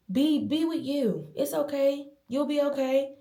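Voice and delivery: high-pitched, soothing self-talk; self-reassurance. Retold or imitated. Woman retelling how she told herself to be okay, reassuring. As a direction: gently talk yourself through it, voice lifted high.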